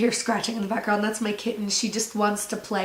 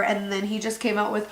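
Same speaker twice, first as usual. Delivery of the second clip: ordinary talk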